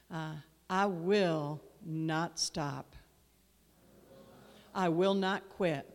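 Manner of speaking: slow, firm call for the room to echo; declaration to repeat. Shown as a demonstration. Pastor leading the church in a repeat-after-me declaration. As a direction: lay each word down for them to repeat. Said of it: "Now I want you to repeat after me".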